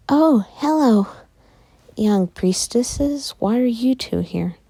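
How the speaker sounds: high, eager shopkeeper greeting, drawn out on priestesses; a sudden bright welcome for two visitors; man greeting the girls. Acted. Shop man greets young priestesses in a high eager voice. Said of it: "one of the men greets them like".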